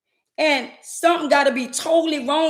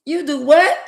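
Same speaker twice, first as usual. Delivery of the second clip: louder, higher stunned "what?"; shocked disbelief; 4 semitones higher, 6 dB louder than usual. Acted. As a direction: ask it like you can't believe your ears. Rising shocked reaction.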